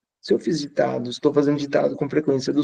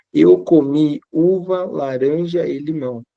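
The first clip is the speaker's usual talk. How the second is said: slow dictation read; slower than usual. Shown as a demonstration. Teacher dictating a sentence to the class, slow and clear. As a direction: read it slowly and clearly, word by word, for pupils to write. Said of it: "você faz um ditado assim".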